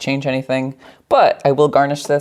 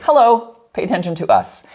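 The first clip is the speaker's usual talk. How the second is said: higher, louder, demanding attention; loud, showy bourbon; 8 semitones higher, 3 dB louder than usual. Retold or imitated. Bourbon and rye voiced as a loud show-off. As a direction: bourbon shouting hello for attention. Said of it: "they're like".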